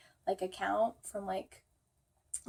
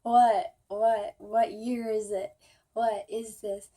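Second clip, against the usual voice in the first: groggy confusion; 5 dB louder than usual. Retold or imitated. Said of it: "I was like".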